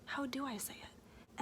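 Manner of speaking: slow, hushed self-question; inner voice. Retold or imitated. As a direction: mutter to yourself slowly, unsure. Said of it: "I'm like".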